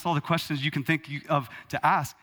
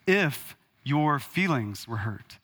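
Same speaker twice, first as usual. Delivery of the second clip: mock insincere apology; slower than usual. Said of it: "Don't say".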